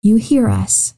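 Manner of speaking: calm, measured praying voice; children's prayer. Acted. Host praying with young listeners, calm prayer. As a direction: pray simply and unhurriedly.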